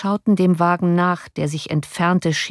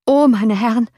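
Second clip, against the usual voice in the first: raised, higher-pitched exclamation; calling out; 5 semitones higher, 4 dB louder than usual. A narrator's reading. Coachman to his passengers at the closed gate, calling out. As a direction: cry out to your passengers. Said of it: "rief der Kutscher".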